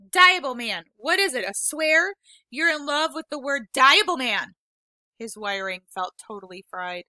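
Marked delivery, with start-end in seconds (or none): 0.1-4.6 mocking taunt. Peter mocking her swear.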